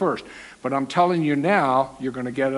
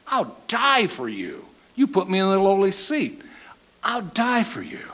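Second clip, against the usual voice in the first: protesting vow; 5 semitones higher than usual. Retold or imitated. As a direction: insist hard, climbing higher. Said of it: "the first one to protest".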